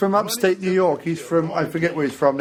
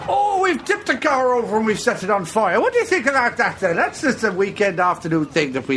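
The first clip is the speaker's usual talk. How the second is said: cocky gangster; 6 semitones higher than usual. Acted. Voicing gang members in movie.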